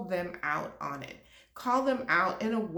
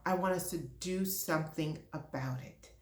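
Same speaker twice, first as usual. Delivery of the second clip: softer, said almost to herself; a quieter, held-back version before the passion breaks through; quiet first take; 3 semitones lower, 6 dB quieter than usual. Real, not acted. To her HR leaders, quietly firm. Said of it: "Yes, I'm being passionate".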